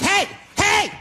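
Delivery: high, urgent calls; a guy on the street calling out a warning. Retold or imitated. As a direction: call out to stop someone.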